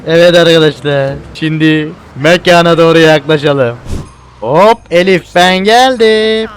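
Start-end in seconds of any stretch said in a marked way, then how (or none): 4.4-6.5 drawn-out, raised singsong call; calling out arrival. Pretend. Player announces himself to Elif, drawn-out call. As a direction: stretch it out as a greeting.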